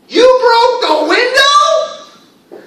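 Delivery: very high, drawn-out yell of accusation; excited, angry shout. Shown as a demonstration. Teacher acts out an exclamation about a broken window, angry shouting. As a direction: yell it at full force, way up high. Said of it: "I'm excited, I, maybe I'm angry".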